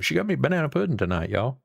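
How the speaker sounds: real excitement over banana pudding; excited. Real, not acted. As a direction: blurt it out, thrilled at the treat. Excited repeat of wife's gift.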